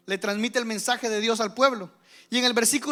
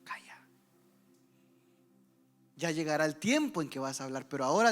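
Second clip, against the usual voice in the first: soft, whispered, lower; hushed voice of God; 6 semitones lower, 6 dB quieter than usual. Acted. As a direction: whisper it like a secret promise. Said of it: "Dios te dice". (voz de Dios susurrada, baja y suave)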